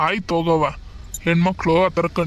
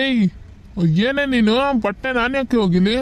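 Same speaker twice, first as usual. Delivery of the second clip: high, indignant retort; indignant outburst; 5 semitones higher than usual. Acted. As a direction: flare up at her, offended. Husband flares up at wife. (ಏರಿದ ಧ್ವನಿಯಲ್ಲಿ ಸಿಟ್ಟಿನ ಉತ್ತರ)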